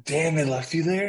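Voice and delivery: loud, high-pitched disbelief; surprised reaction. Real, not acted. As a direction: react in real shock to a friend's story. Listener reacts to being abandoned.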